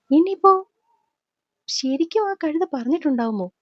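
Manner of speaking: a sharp, high, startled ഇനിയിപ്പോ; sudden alarm. Acted. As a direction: jolt up on ഇനിയിപ്പോ as the worry hits. Sudden worried thought. (പെട്ടെന്നുള്ള ഞെട്ടലോടെ)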